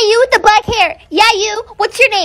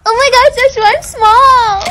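fake cute voice; 3 semitones higher than usual. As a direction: put on a sweet fake voice. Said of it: "What's up with the fake voice?".

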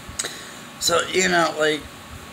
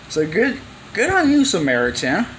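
sarcastic praise; 6 semitones higher than usual. Real, not acted. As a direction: toss off a sarcastic good on you.

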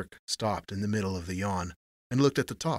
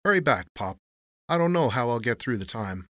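mocking send-off, pitched up a little; drawling clerk; 2 semitones higher, 5 dB louder than usual. A narrator's reading. Clerk sees Tony off sarcastically, drawling. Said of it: "the clerk drawled".

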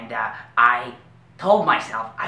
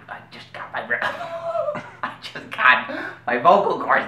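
laughing; 5 semitones higher than usual. Acted. Laughing through the line.

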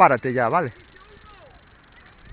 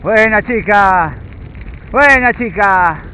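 squeaky praising a dog; 6 semitones higher, slower than usual. Real, not acted. Praising the dog during run.

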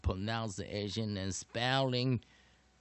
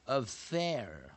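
"Affair" drawn out slowly on its second syllable; stress on second syllable; 2 semitones higher than usual. Shown as a demonstration. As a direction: stretch the "fair" in "Affair". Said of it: "它重音在第二个音节". (“Affair”重音放在第二个音节，慢慢拉长)

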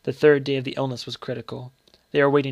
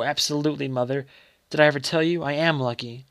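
feverish excitement; 3 semitones higher, 4 dB louder than usual. Acted. Dying boy tells his mother he won, feverishly excited. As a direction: boast it breathlessly, sick.

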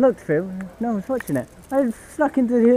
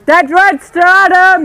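shouted call; 3 semitones higher, 6 dB louder than usual. Real, not acted. Calling teammates to respawn.

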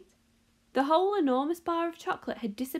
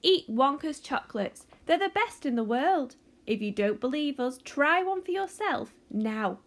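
ad voice; 4 semitones higher, 5 dB louder than usual. Retold or imitated. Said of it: "a voice will say".

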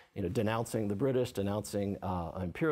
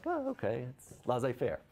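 breezy shrug. Retold or imitated. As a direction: toss it off like it's no big deal, lightly mocking. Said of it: "where the French are like".

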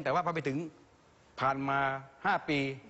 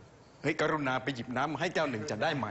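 stiff, overformal; 2 semitones lower than usual. Retold or imitated. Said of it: "ตัวแข็งเกร็งทื่อ".

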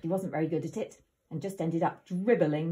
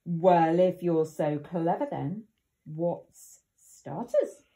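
triumphant wolf; 2 semitones lower, 6 dB louder, slower than usual. Acted. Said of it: "triumphed Big Wolf".

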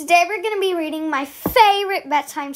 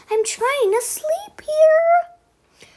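slow, high whisper; whispered plea; 12 semitones higher, slower than usual. Acted. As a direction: whisper it, desperate for sleep. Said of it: "The zebra said".

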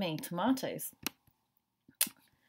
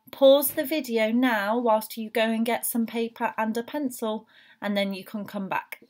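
teacher voice; 2 semitones higher, 4 dB louder than usual. Shown as a demonstration. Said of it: "I'm going to be your teacher voice".

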